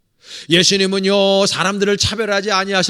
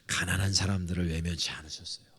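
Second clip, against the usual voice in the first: breathy whispered aside, much softer; 9 semitones lower, 9 dB quieter than usual. Acted. Preacher whispering to his congregation for effect. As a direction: lean in and whisper it to the pews. Sudden hush mid-sermon.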